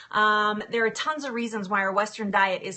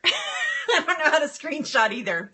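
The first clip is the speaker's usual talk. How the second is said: laughing admission; 6 semitones higher than usual. Real, not acted. Admitting laughingly.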